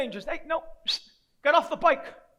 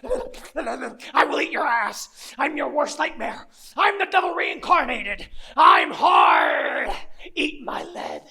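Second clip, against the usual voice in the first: rasped, menacing demon act; wild, growled devil threats; slower than usual. Acted. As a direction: scare them off as Lucifer. Poses as devil to scare gang.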